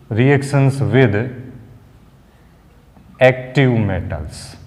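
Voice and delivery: very slow, word by word as he writes on the board; dictating while writing. Shown as a demonstration. Teacher dictating the heading slowly for students to copy. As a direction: spell it out slowly for the notes. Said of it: "Hindi English दोनों में साथ में लिख रहा हूं".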